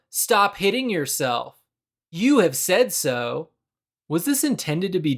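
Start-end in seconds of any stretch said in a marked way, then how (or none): 0.1-3.5 mock bully taunt, slow at the end; a light cheeky jab; sassy taunt. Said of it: "with the same tone as".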